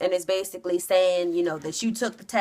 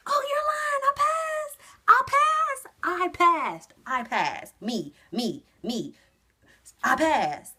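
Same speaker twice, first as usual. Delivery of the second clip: shrieking much higher and louder, fading back down by the end; ecstatic shout; 11 semitones higher, 3 dB louder, slower than usual. Retold or imitated. Driver just told she passed, shrieking with joy then calming. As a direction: scream for joy, then settle into disbelief.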